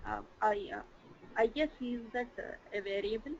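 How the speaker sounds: very faint, far from the mic; faint distant voice; barely audible. Real, not acted. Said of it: "Could you please be louder".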